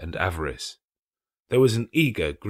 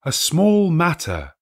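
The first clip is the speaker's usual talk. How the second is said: raised, slow spectral voice; lightly voiced ghost, lofty and slow; ghost's voice; 10 semitones higher, 8 dB louder, slower than usual. A narrator's reading. The ghost dismisses the apprentices' gratitude, slow and lofty.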